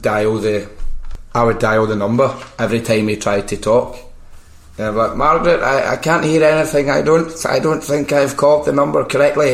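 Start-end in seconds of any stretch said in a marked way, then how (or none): 5.2-9.5 higher, lightly voiced muddled old man; a hint of a fretting old caller; old guy. Old-man prank caller telling Margaret he can't hear, lightly aged voice. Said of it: "pretend to be, like, an old guy".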